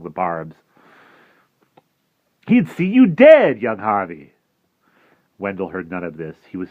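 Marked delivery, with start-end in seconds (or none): 2.5-4.3 louder, coaxing warning; a hint of sly tempter. Jive warns Harvey from the bushes, lightly voiced sly creature. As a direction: lean in and warn slyly.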